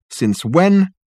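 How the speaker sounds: high sharp surprised question; startled. Acted. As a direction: demand it in disbelief.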